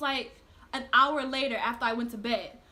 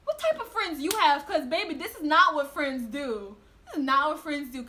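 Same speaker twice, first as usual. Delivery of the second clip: indignant retort; 4 dB louder than usual. Retold or imitated. Confronting George about friends.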